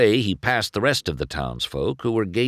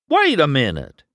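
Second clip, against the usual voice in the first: high, louder moment of realization; dawning realization; 8 semitones higher, 5 dB louder than usual. A narrator's reading. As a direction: pipe up as the truth dawns. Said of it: "the truth finally dawning on him".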